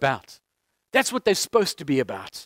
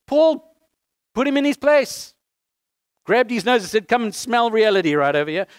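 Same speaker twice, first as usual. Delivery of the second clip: preaching rebuke; 5 semitones higher, 5 dB louder than usual. Acted. Preacher retelling Paul's rebuke.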